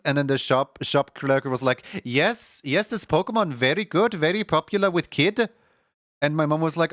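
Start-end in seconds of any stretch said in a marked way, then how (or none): 2.0-5.5 put-on Indian accent. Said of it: "I was trying to do an Indian accent".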